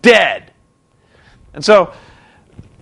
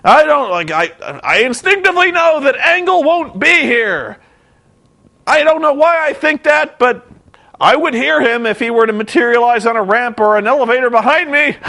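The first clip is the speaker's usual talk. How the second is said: mock oblivious Anderson; 6 semitones higher than usual. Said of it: "And Anderson's like".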